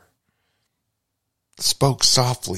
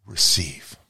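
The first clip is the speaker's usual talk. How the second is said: "receive." breathed out in a true whisper; whispered benediction; 2 semitones lower than usual. Pretend. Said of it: "whispered like a benediction".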